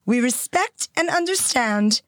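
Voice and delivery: measured royal British reading, phrase by phrase; the Queen's cadence. Shown as a demonstration. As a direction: imitate the Queen's very specific cadence. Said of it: "she speaks in a very specific cadence".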